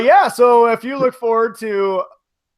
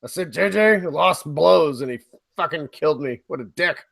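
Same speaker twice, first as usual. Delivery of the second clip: put-on drunk Harrison Ford. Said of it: "Damn Harrison".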